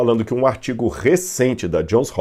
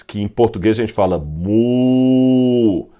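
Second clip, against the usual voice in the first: mooing imitation; slower than usual. Shown as a demonstration. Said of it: "O som que o boi faz".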